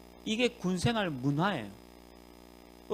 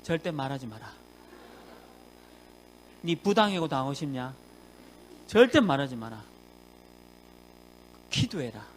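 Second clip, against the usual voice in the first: stern pastor's reply; 4 semitones lower than usual. Retold or imitated. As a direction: lower the voice and lay down the rule. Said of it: "그럼 답변합니다".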